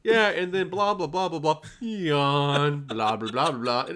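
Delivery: giggling through a mock yawn mid-sentence; laughing retelling, barely getting the words out; laughing while imitating. Teasing friend about the yawn in the meeting, laughing. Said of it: "you're like".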